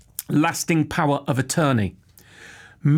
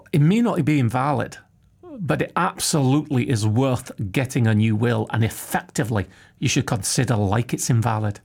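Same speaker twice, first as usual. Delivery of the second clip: put-on a light Scottish accent, lower at the end; Austin's Scottish accent; 3 semitones lower than usual. Podcast host imitating the Scottish solicitor Austin, mild Scottish accent. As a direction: chew on the consonants Scottish-style, gently. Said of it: "do I do his accent or not".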